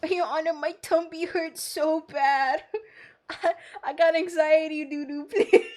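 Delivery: a hint of a whining witness with a stomachache; whiny nervous witness. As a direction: play it as a nervous witness begging the judge. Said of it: "I'm like, "My tummy hurts really bad".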